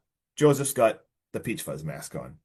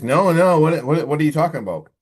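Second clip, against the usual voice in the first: mock flustered, higher and louder; flustered denial; 4 semitones higher, 6 dB louder than usual. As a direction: blurt out a hurried, repetitive denial. Acted flustered denial of odd remark.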